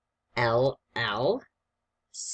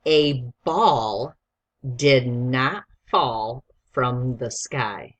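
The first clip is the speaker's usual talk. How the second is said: dictation read; 5 dB louder, much slower than usual. Shown as a demonstration. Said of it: "I'm gonna read it quickly first".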